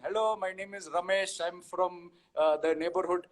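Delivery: lightly put-on Indian accent; Indian character. Shown as a demonstration. Comparing stereotypes for the host, light Indian character accent. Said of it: "an Indian character saying".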